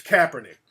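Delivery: Kaepernick stressed on the first syllable; corrected pronunciation. Shown as a demonstration. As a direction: say Kaepernick as "CAP-er-nick". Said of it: "funny style about, about certain word pronunciations".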